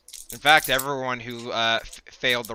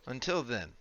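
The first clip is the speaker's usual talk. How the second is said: low, soft, slow telepathic voice; hushed, unhurried mysterious messenger; voice in the mind; 3 semitones lower, 8 dB quieter, slower than usual. Acted. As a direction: speak slowly and quietly into someone's head, with long pauses. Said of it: "then a voice enters your mind".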